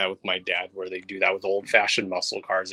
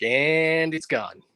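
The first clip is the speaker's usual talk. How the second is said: South Park quote; 6 semitones higher, much slower than usual. Retold or imitated. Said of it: "As he says on the episode of South Park".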